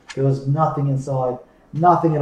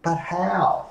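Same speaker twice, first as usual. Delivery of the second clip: put-on innocent girl; 5 semitones higher than usual. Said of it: "she asked".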